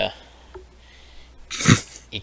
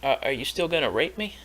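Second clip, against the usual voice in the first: higher, slow nervous questioning; anxious captive voice; 6 semitones higher, slower than usual. Acted. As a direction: ask it fearfully, slowly. Captive confused, GM voices him.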